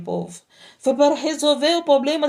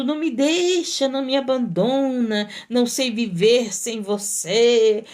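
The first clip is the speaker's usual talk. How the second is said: lightly hammed-up begging not to be left; mock tearful pleading. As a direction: plead like someone crying crocodile tears. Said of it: "Tem tanta gente chorando".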